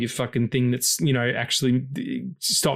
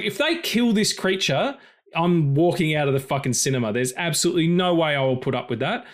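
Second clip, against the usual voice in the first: higher-pitched mock threat, worked up; indignant; 4 semitones higher than usual. Actor quoting his own vow to walk out, indignant. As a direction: swear you'll storm out if they dare.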